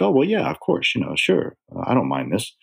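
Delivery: imitating casual agreement, opening high; mock easy agreement. Imitating people who think that's common, breezy mock agreement. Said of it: "They're like".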